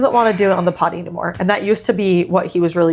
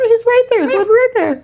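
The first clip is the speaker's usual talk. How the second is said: exasperated emphasis; 14 semitones higher, 4 dB louder, faster than usual. Real, not acted. Frustrated retelling, exclaiming.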